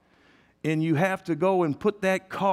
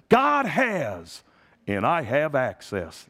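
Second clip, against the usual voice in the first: the confident preacher's cadence; T L Osborne's way; slower than usual. Retold or imitated. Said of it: "That's how he said it".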